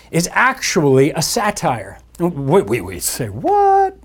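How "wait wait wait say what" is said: wait, stretched out in pretend surprise; mock disbelief. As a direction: play a stunned listener cutting the preacher off. Mock listener interrupts sermon.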